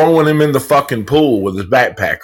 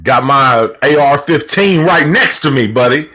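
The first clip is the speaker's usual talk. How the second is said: patriot voice; 2 semitones higher than usual. Acted. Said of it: "Real Patriots voice".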